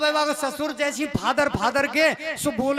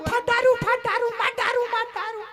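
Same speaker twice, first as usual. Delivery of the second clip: mimicking the bride; 11 semitones higher than usual. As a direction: stretch out the strange words like an eerie chant. Old woman mimics the bride's words.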